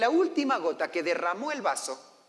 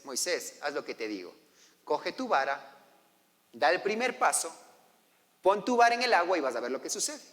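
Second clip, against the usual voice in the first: a touch of stern, low-spoken authority; Dios molesto; 5 semitones lower than usual. Acted. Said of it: "el Señor se molesta". (Dios le ordena a Moisés con firmeza serena)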